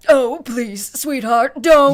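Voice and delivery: loud alarmed plea; pleading. Acted. Father begging his daughter not to, loud alarmed plea. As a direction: beg her to stop, loudly.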